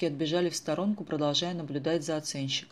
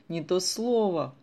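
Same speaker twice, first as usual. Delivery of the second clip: slow, breathed-out amazement, higher and louder; stunned exhale; 4 semitones higher, 6 dB louder, slower than usual. Acted. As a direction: let the words out in shock. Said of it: "выдохнула потрясённая Виктоша". (потрясённо, на выдохе)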